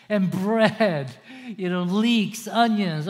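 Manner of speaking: hammed-up whining grumble; complaining Israelites. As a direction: moan like a sulky crowd. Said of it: "they're just lusting after food".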